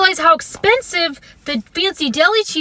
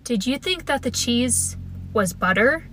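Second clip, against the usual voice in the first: softer, lower patient question; very calmly; 3 semitones lower, 6 dB quieter, slower than usual. Retold or imitated. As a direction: ask gently like nothing is wrong. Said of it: "very calmly was like".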